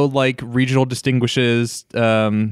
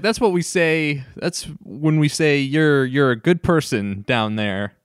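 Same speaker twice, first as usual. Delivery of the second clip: mock Southern accent; 3 semitones higher, slower than usual. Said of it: "She's, she's like".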